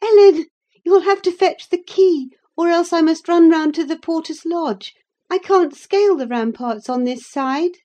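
put-on high, bright girlish voice calling down; girl Cathy calling out. A narrator's reading. Cathy calls to Ellen from atop the wall, high girlish call. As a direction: play the young girl, eager and cheeky. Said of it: "laughing and exclaiming".

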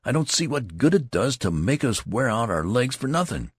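put-on young recruit griping to the tall soldier; complaining cry. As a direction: whine that the march is pointless. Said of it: "he cried".

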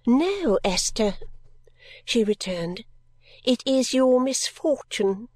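lightly voiced cold guardian. Narrator voices a stern parting guardian.

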